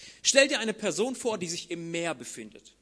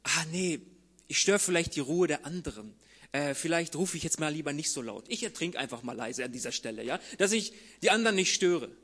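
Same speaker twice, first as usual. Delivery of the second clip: mock polite; 3 semitones lower than usual. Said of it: "wird in so einem Moment wohl kaum denken".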